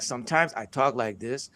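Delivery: lightly Nigerian-accented English. Shown as a demonstration. Speaker shows an audience one way of talking, Nigerian accent. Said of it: "sometimes he says things like this with accent".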